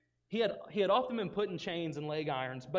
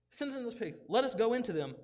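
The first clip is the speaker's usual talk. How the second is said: begging demons; 6 semitones higher than usual. Acted. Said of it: "the evil spirits begged Jesus".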